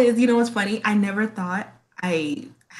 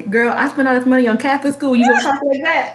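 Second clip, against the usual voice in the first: lightly voiced scolding dad, higher and half-laughing; mock dad teasing about Catholic school money; dad scolding his daughter about her speech, lightly imitated; imitating her dad; 5 semitones higher than usual. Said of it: "My dad would always say".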